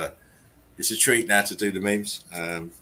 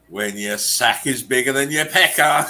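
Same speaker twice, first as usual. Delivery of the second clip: laughing; 4 semitones higher, 4 dB louder than usual. Real, not acted. Reading meme, cracking up.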